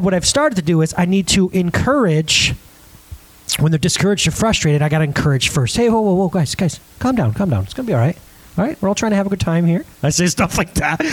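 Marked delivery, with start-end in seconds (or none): 5.8-9.8 mock bouncer defusing a scene; quick, hushing crowd-control patter; bouncer calming things. Dad settles frustrated son, lightly voiced bouncer calming him down. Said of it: "I talk to him like a bouncer".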